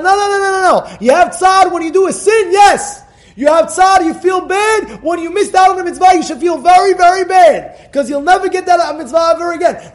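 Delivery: high, loud, driving rebuke; preaching at full force. Real, not acted. Rabbi preaching to his congregation about real regret, loud and fervent. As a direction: hammer the point home to the congregation.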